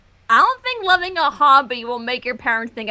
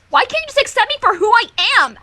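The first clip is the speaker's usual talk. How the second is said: mock-wounded Twilight; 7 semitones higher, faster than usual. Twilight's dramatic accusation.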